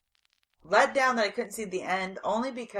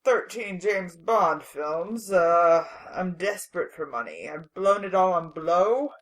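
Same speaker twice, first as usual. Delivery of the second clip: Sean Connery impression; 4 dB louder than usual. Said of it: "so that was me being Sean Connery".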